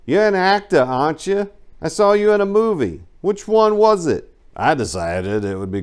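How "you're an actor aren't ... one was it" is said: higher, excited mock meter maid; meter maid quote. Meter maid thinks she knows him from a movie, higher mock voice. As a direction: play the starstruck meter maid, pitched up. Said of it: "She said".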